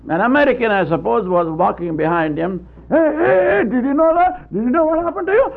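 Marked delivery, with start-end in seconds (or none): 2.9-5.5 higher, fast, eager call to a stranger; high, quick excited hailing. Retold or imitated. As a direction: hurry to get his attention. American calling after the Indian.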